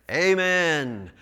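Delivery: mildly shouted response; congregational shout. Acted. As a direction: answer as the assembled people. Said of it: "You talk about a shouting time".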